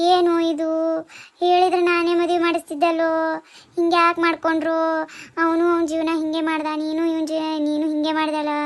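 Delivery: grief-stricken, sing-song wailing; wailing lament. Acted. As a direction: wail each phrase out to its last vowel.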